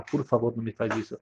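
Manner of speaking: soft, tearful plea; pleading in tears. Acted. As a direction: beg quietly as if about to cry. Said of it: "o Boris começa a chorar". (Boris suplicando ao rabino, baixinho e choroso)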